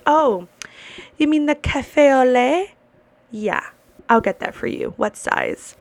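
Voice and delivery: lightly voiced barista saying it right; café au lait said breezily and confidently, rising; mock barista. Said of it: "She goes".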